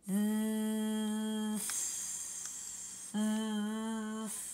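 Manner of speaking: buzzing Z sliding into hissed S; Z then S. Shown as a demonstration. Teacher contrasting voiced Z and unvoiced S. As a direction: stretch zzz then sss without stopping. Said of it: "Try it with me".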